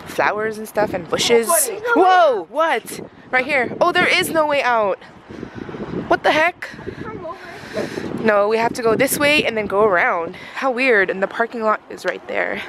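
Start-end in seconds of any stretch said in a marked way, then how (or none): 1.9-6.7 surprised. Real, not acted. Finds no way out.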